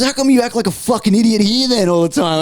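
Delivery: retold baffled older bloke; lightly voiced disbelieving workmate; incredulous coworker. Coworker confronts him.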